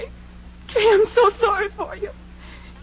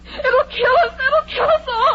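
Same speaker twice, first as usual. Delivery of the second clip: rising, tearful panic; panicked wail; 4 semitones higher than usual. Acted. Edna warns the girls in tearful panic. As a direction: let the terror break through. Edna hysterical about poltergeist.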